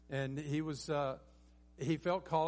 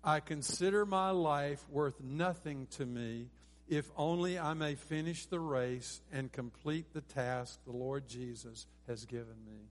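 slow, measured unison verse reading; deliberate, evenly spaced recitation; leading group recitation; 4 dB louder than usual. Shown as a demonstration. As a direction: lead the congregation through it phrase by phrase. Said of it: "Let's say this together".

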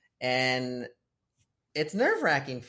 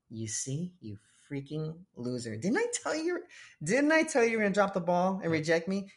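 condescending sneer; 4 semitones higher than usual. Retold or imitated. Jesus imagined scolding Peter, condescending sneer. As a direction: sneer at him like a scornful judge. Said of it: "God doesn't talk to you in a condescending way".

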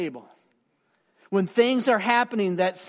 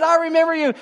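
much higher and louder, bursting with recognition; excited; 11 semitones higher, 9 dB louder, faster than usual. Retold or imitated. Friend calling back next day, high excited gush. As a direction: gush it like you just remembered an old friend. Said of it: "all excited".

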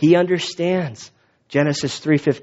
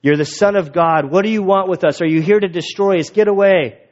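heckling demon; 4 semitones higher than usual. Retold or imitated. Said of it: "This guy's heckling Jesus".

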